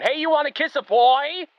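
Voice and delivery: high-pitched mock pestering question; hammed-up high voice, imitating a coworker; Michael. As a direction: blurt it high, rising at the end. Acts out Michael entering the office.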